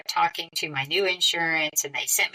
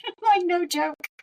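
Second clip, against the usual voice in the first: laughing; 12 semitones higher than usual. Real, not acted. Stunned laugh at the fourth baby.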